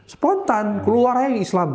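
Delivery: amazed at own words; excited. Real, not acted. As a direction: let it burst out in delight. Excited recalling spontaneity.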